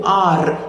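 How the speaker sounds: "R" with a trilled ending; Indian rolled R. Shown as a demonstration. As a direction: roll the tongue on "R". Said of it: "That's not what you do".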